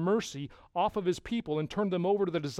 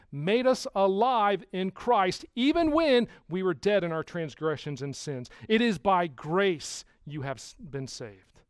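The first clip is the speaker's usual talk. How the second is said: preaching; 3 semitones higher, 6 dB louder than usual. Acted. Preacher proclaims grace.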